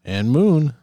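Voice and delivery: bellowed name, high and loud; loud announce. Acted. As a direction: call out the name with gusto. Podcast intro, co-host announces.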